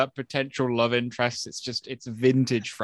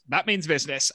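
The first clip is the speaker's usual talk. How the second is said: mock urgent; 4 semitones higher than usual. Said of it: "his delivery just killed me".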